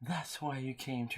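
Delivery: creepy guy voice. Acted. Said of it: "read this in a creepy guy voice".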